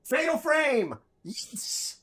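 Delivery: high, excited burst of recall; triumphant exclamation. Real, not acted. Player finally remembering the game's name, triumphant exclamation. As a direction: shout it out as it finally comes back.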